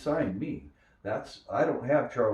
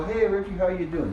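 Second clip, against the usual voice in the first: casual greeting; 10 semitones higher, 6 dB louder than usual. Retold or imitated. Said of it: "and others go".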